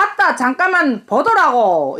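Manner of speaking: casual Jeolla accent; Jeolla dialect. Shown as a demonstration. Mother retries "excuse me" for her daughter, Jeolla dialect. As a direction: ask for a moment in Jeolla dialect. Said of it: "이렇게 하더구만".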